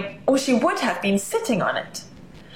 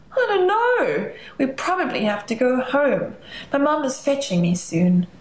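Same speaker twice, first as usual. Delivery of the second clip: sadly; 3 semitones higher than usual. Acted. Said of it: "Navi says sadly".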